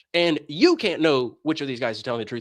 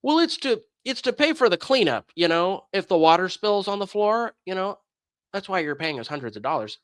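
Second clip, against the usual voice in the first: much higher mock church secretary; mimicking the secretary; 3 semitones higher than usual. Church secretary explaining fees to the caller, higher and prim. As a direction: imitate her excuse in a prim high voice. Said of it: "she's like".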